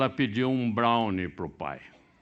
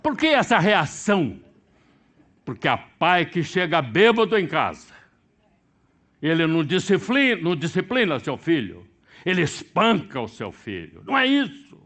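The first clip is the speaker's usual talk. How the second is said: loud, high, driving sermon delivery; full-force preaching; 7 semitones higher, 8 dB louder than usual. Acted. Preacher condemning drunk fathers to congregation, loud full-force preaching. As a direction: preach it hard, hammering each phrase.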